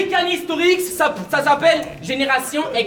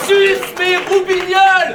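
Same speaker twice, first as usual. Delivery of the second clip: raised, loud exclamation; shouted punchline; 5 semitones higher, 5 dB louder than usual. Acted. Rapper capping a list of silly translations, shouted punchline. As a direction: shout it out as the payoff. Punchline thrown over the crowd.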